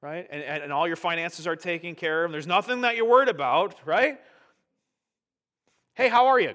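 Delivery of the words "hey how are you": chirpy greeting. Retold or imitated. Acted church greeting.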